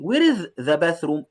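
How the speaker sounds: very slow, word by word English; slow reading. Shown as a demonstration. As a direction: read each word slowly for the class. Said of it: "slow reading for class".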